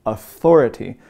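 "authority" set apart with a punched second syllable; emphasized word. Shown as a demonstration. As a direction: lean hard on the THOR in "authority". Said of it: "I love to emphasize this word too".

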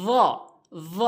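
"য" as heavy voiced th; tongue tip on front-tooth edges for "য"; য demonstration. Shown as a demonstration. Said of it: "জিহ্বার আগাটি". ("য", জিহ্বার আগা দাঁতের আগায়)

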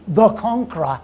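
"the Conqueror" weighted as a grand title; emphasis on Conqueror. Shown as a demonstration. Teacher naming William to a class, stress on "Conqueror". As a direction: lean firmly on "Conqueror". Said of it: "emphasis on the word the Conqueror".

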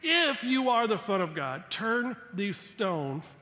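a hint of the devil's challenge, drawn out at the end; taunting devil. Devil daring Jesus to make bread, taunting. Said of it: "he goes".

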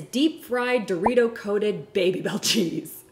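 barely holding in a giggle; trying not to laugh. Real, not acted. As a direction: laugh breaking into the last words. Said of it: "can't even say it without laughing".

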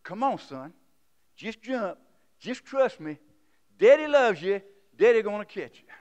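pleading father. Retold or imitated. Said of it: "Daddy is pleading".

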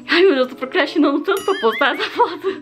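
nervous laugh. Real, not acted. Vlogger about to post a bare photo, laughing nervously. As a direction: giggle at yourself, nervously.

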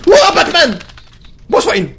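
high, loud excited shout; excited call. Real, not acted. Player spotting a trapped figure and calling out, high and loud. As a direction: call out the name with delight.

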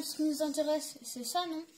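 talking with mouth full; words round a bite of food; chewing while talking. Real, not acted. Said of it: "Désolée si vous m'entendez manger".

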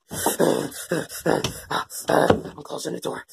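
Larry whispering as he leaves; whispered. Acted. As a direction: slip out whispering. Whispered exit.

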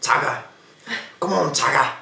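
lightly done cartoon Australian accent; hint of a cartoon Australian accent. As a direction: imitate a South Park Australian, calling out. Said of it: "the South Park one when he goes".

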